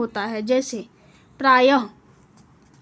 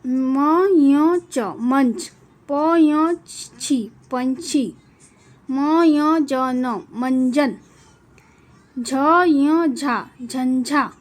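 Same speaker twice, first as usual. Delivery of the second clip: slow spelling out; much slower than usual. Shown as a demonstration. Teacher to class, sounding out words with anusvara, slowly. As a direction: build मंच, पंछी and झंझा sound by sound, slowly. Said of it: "इस तरह का हम इसको बोलते हैं".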